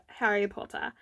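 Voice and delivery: lightly put-on British accent; a touch of bad British; fake British accent. Real, not acted. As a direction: say it with a slight mock-British accent. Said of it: "that crappy fake British accent".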